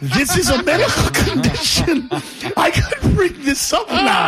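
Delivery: excited realization, laughing through it; high and delighted, like a discovery; mock eureka. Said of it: "I'm like".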